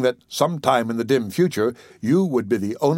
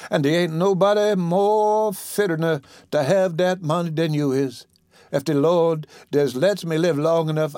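sick woman; 3 semitones higher than usual. Acted. Patient promising her caretaker the will, weak and earnest.

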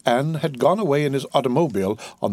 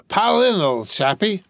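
high, hearty urging; jolly, exclaimed invitation; cried out; 8 semitones higher than usual. A narrator's reading. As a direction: start high and insistent, easing down on the last words. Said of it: "cried the other".

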